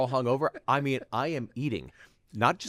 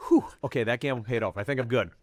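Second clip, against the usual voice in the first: relieved; faster than usual. Retold or imitated. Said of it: "I was like".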